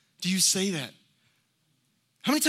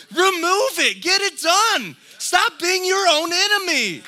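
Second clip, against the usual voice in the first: loud, high exhortation; full-force sermon climax; fiery preaching; 11 semitones higher, 8 dB louder than usual. Acted. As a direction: drive it home to the congregation.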